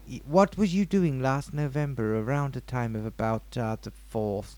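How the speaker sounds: lightly played therapist questioning; put-on psychiatrist. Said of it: "I'm a psychiatrist".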